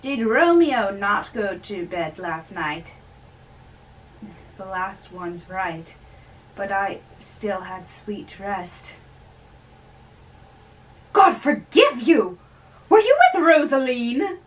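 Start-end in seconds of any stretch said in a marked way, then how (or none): 0.0-2.9 raised, loud and jovial; cheerful old friar. Acted. Old friar teasing the young man at dawn, loud and jovial. 11.1-14.4 loud, high exclamation; shocked friar. Acted. Friar alarmed that the young man skipped his bed, loud cry.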